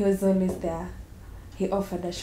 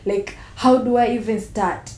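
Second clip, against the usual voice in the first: louder, overwhelmed plea; desperate; 2 semitones higher, 7 dB louder than usual. Acted. Pregnant woman unsure how to tell parents, desperate. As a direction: at a loss and letting it out. Dreads telling her parents.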